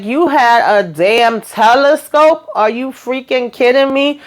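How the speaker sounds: high, shocked disbelief; shocked outburst. Retold or imitated. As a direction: blurt it out, stunned and outraged. She finds out about telescope.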